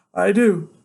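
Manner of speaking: high, loud retort; defiant insistence. Acted. Son contradicting his father, high defiant retort. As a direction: insist right back at him.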